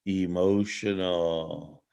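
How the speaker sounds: slow low drawn-out emotional; emotional. spoken slowly and low like a chant; call and response. Shown as a demonstration. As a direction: lead the crowd in emotional., stretched and deep. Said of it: "Everybody say it with me".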